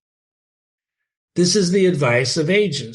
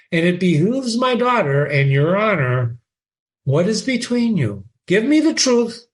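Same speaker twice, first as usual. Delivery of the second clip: stern father; 3 semitones higher than usual. Acted. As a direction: scold and demand the truth. Voices Polonius lecturing.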